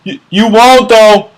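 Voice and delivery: over-the-top shouted taunting; Mike yelling. Retold or imitated. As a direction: shriek the taunt from the back. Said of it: "Mike will be in the back yelling".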